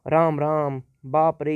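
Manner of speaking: exclamation tune. Shown as a demonstration. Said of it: "ये भी एक क्रोध".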